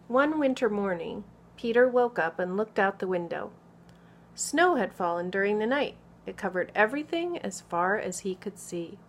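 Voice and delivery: put-on expressive picture-book narration for small children; story read-aloud. A narrator's reading. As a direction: read clearly and with lively emphasis to children.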